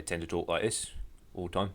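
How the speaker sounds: lightly put-on Cockney; a hint of weird mock Cockney; faux Cockney accent. Shown as a demonstration. Game master showing players how orcs talk, light faux Cockney. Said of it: "weird faux Cockney accent".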